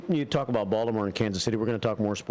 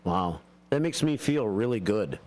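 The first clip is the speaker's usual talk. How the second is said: deadpan thanks, barely any enthusiasm; unenthusiastic; 2 semitones lower, slower than usual. Real, not acted. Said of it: "I can sense the enthusiasm in your voice".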